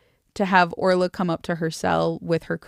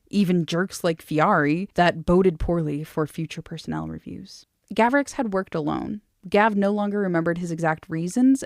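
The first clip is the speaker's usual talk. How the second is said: measured audiobook-style reading; story narration. A narrator's reading. Reading a novel to a friend, story narration. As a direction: read the dialogue lightly in character.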